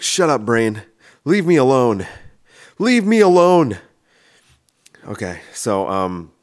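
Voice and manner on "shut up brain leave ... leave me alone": from firm to a much higher, louder leave me alone; yelling at his brain, building. Retold or imitated. He yells at his own brain, building to a mock shout. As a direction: snap back, then shout it away. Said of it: "And I'll be like".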